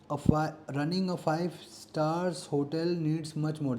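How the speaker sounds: very slow, word by word, like dictating to a class; slow dictation reading. Shown as a demonstration. Teacher reads a grammar question aloud to students, slow and deliberate. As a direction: read the exam sentence out slowly so students can follow.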